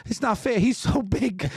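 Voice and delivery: put-on sigh, then high childish whine; very high pouty kid voice; upset son. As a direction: imitate a teary little boy protesting. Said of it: "really upset about it".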